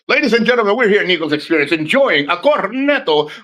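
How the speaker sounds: playful presenter voice; mock announcer. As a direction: announce it like a pretend video intro. Mock intro for the promised video.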